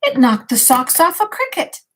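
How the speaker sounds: put-on bedtime story read to a child; reading aloud. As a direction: gently read the picture book to the grandchild. Reads picture book aloud.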